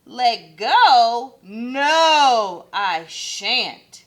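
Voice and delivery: loud panicky no; scared refusal. Acted. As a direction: refuse in fright. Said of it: "But Kevin was scared".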